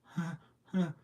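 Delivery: fake laugh. Boys brushing off the mom's doubts, forced laugh. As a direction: laugh it off nervously to brush her aside. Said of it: "And we're like".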